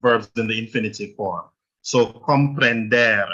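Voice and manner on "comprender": comprender with the last syllable -DER stressed and drawn out; stress on final syllable. Shown as a demonstration. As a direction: slowly land on the end of comprender, -DER. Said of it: "you stress the final syllable".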